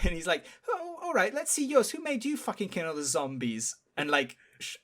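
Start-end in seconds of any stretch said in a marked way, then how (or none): 0.7-3.8 high mock zombie groan; lightly voiced zombie moan. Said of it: "does a really good zombie impression".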